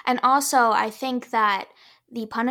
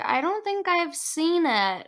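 slow, higher doubtful voice; mock doubtful; 4 semitones higher, 4 dB quieter, slower than usual. Friends reacting to her movie choice, doubtful. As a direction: imitate puzzled listeners, drawn out and high. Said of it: "and they're like".

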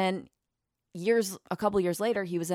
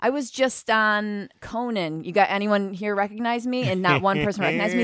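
irritated rant; 4 semitones higher, 6 dB louder than usual. Retold or imitated. Comic on stage complaining nobody recognizes him, irritated loud rant. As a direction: play Mike DiStefano fed up that nobody knows him. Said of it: "he was just so irritated".

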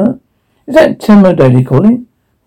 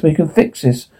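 soft repeat, almost to himself; quiet; 7 dB quieter than usual. Acted. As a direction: drop the repeat way down, softer. Repeated much more quietly.

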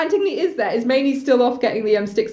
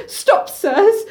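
higher-pitched, polite mock shout; 5 semitones higher, 3 dB louder than usual. Chorus objecting to Creon's men, high, mild shout. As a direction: shout it like a well-mannered chorus. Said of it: "And the chorus just shouts".

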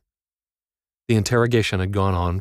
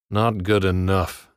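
slow taunting guard; slower than usual. A narrator's reading. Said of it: "Nordahl said".

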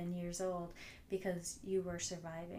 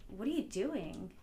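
passive-aggressive tone. Retold or imitated. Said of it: "passive-aggressive tone of".

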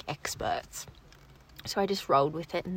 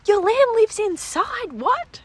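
surprised; 13 semitones higher, 6 dB louder, slower than usual. Retold or imitated. City ladies amazed at indoor lamb.

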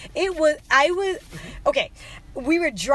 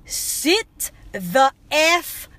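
stern mock command, slowly word by word; imitating a fed-up parent, heavy pauses between words; retold swearing; much slower than usual. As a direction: punch out each word slowly, without a full yell. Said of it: "literally screaming and swearing".

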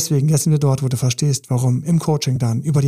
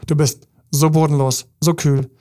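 louder, hammed-up accusing rant; accusing partner; 4 dB louder than usual. Partner shuts her out of the garden, loud accusing. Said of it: "das kriegt sie alles vorgeworfen".

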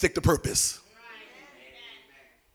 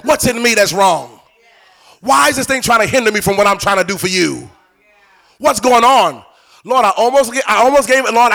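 pleading aloud to God in fervent prayer; preacher demonstrating heartfelt prayer; 3 semitones higher, 11 dB louder than usual. Shown as a demonstration. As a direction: model an earnest, wrestling prayer. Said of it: "that's how you want to be in prayer".

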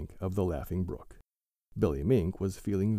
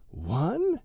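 raised count; 9 semitones higher than usual. A narrator's reading. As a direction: build up the countdown. Counting to dive.

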